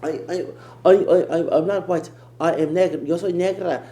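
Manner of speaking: loud, high mock Puerto Rican accent; a playful go at a Puerto Rican accent. Mocking Jocelyn's claim in a Puerto Rican accent. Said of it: "I can't do a Puerto Rican accent real good".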